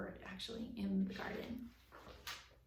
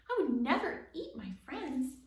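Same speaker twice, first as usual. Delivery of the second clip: higher and louder, indignant; insist, hurt by the idea; shocked denial; 5 semitones higher, 8 dB louder than usual. A narrator's reading. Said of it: "Abby looked shocked at the idea".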